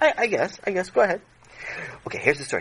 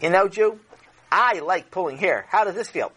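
put-on mean little girl; 5 semitones higher than usual. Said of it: "a girl who was four".

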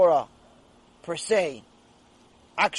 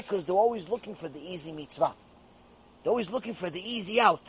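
normal talking voice

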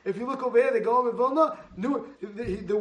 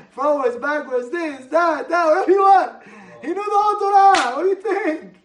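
higher and louder, building; rising preaching; 5 semitones higher, 9 dB louder than usual. Real, not acted. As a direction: build the praise to a peak.

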